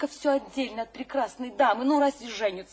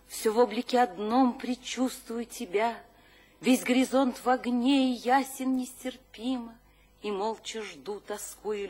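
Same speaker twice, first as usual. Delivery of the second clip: poem recital. Acted. An admirer recites the poet's own verse back to him in a recital voice. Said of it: "Мне бы так никогда не прочесть".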